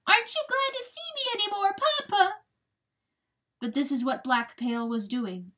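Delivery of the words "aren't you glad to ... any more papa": high, rushed fawn wail; fast, high-pitched desperate cry. A narrator's reading. Rejected fawn to her father, high fast cry. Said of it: "she cried".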